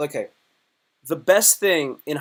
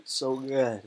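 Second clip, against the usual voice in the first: breathy savoring moan; 3 semitones lower, 6 dB quieter than usual. Retold or imitated. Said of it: "I'd be like".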